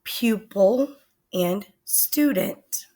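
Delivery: "pupil and student" said slowly and clearly; teacher modelling slowly; slow example words. Shown as a demonstration. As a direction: spell out "pupil" and "student" for listeners. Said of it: "such as".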